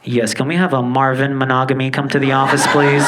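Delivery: mock school announcer paging a student; intercom announcement. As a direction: read it out like a school secretary on the PA. Intercom calling him.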